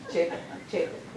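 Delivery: "Japheth" said as JAY-peth, twice; off pronunciation. Real, not acted. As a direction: say "Japheth" with a long AY and a P sound. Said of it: "mine's off".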